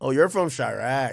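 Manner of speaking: very low, hushed, sarcastic tone. Retelling how Ice reacted to where someone is from: imitating Ice's mock-sarcastic tone. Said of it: "Ice's voice is so like sarcastic".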